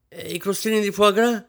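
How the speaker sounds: high, loud alarmed question about the foie gras crostini; high fussy demand. A narrator's reading. Mistress alarmed at the waiters over missing crostini, high fussy cry. Rosine fussing over buffet.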